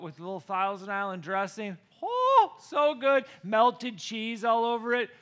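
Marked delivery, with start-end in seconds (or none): 2.0-3.3 savoring. Real, not acted. Craving sandwich.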